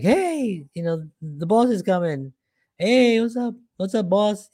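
upbeat, sing-out welcome; happy greeting. Retold or imitated. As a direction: greet the boss like a buddy. Staff happily greet a liked boss.

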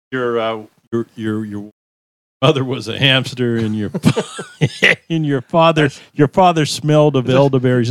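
a hint of the French castle taunter, reciting; lightly mocking movie insult; quoting Monty Python taunt. Guest recites the Monty Python taunt to the hosts, lightly mocking. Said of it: "I know where that came from".

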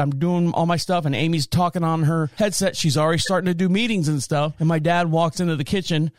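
ordinary delivery

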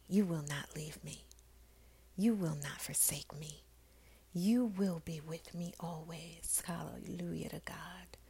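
hushed, whispered encouragement. Acted. Host comforting listeners, in a hushed whispered devotional voice. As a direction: breathe the promise to them like a prayer.

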